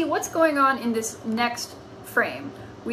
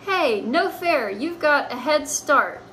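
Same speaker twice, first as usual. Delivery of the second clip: whiny complaint; 4 semitones higher, slower than usual. Acted. Complaining cat.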